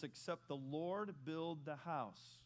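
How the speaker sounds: slow, measured reading of a verse; measured scripture recitation. Shown as a demonstration. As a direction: read it out deliberately. Reads scripture slowly.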